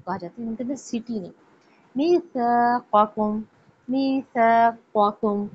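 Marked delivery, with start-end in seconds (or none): 1.9-5.5 teacher separating the two k sounds; qaf and kaf apart. Shown as a demonstration. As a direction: split क़ and क in मीसाक़कुम. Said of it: "क़ाफ दो नुक्तों वाला और डंडे वाला".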